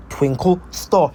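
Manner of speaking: slow, punched-out attack name; attack call. Acted. Hero fires his special move, slow emphatic call. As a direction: call out the move, drawing each word out.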